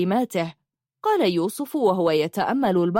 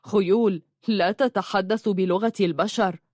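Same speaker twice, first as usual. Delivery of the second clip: understated sarcastic addition; mild sarcasm. Acted. Adding a jibe about talking horses, mildly sarcastic. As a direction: add a light, dry jibe. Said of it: "ثم أردف ساخرا".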